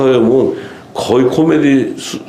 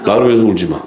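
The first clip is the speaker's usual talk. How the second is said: understated rebuke, falling in pitch; retold curt rebuke; 3 semitones lower, much faster than usual. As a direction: retell the telling-off matter-of-factly, without raising the voice. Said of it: "그냥 막 뭐라 그러잖아요". (목소리를 높이지 않고 담담하게 꾸짖는 흉내)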